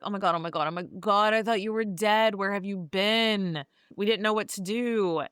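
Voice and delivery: lightly acted frantic relief; worried housekeeper. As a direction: fuss over someone you thought was dead. Housekeeper rushes up, frantic with worry.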